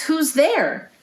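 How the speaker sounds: high, startled little mouse; mouse cry. Acted. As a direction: call out nervously into the dark. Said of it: "Mouse cries".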